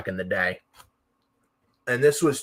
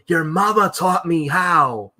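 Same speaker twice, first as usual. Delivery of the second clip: much higher, louder and slow, a mocking put-on voice; imitating Kurt Angle yelling; 7 semitones higher, 5 dB louder, slower than usual. Kurt Angle firing back at the chanting crowd, high put-on yell. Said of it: "Kurt Angle's yelling".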